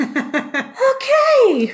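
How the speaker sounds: high, laughing stunned "Okay.". Retold or imitated. Nurse reacts to calm mother.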